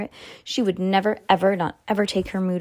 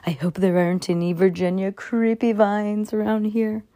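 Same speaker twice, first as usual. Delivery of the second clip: spooky voice. Acted. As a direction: creep it out like a ghost story. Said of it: "said Judy in a spooky voice".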